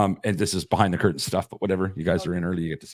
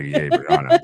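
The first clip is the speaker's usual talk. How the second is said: mock cheering; 6 semitones lower, 5 dB louder, much slower than usual. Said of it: "everybody's all like".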